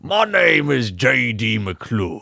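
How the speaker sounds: put-on slow, drawling Southern good ol' boy. Shown as a demonstration. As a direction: drawl it out like a Georgia sheriff. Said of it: "like a southern drawl".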